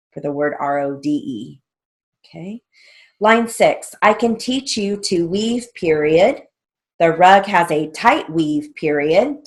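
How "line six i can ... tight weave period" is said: raised, measured drill-sentence dictation. Shown as a demonstration. Teacher reading shorthand drill lines to students, dictation voice. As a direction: read out each sentence and its punctuation.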